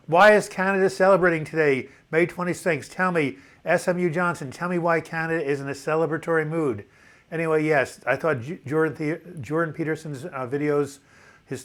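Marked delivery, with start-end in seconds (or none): 0.1-6.8 loud and high, playfully challenging; excited quizzing. Real, not acted. Host playfully quizzing a Canadian viewer, loud and excited. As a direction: coax an answer out of him with gusto.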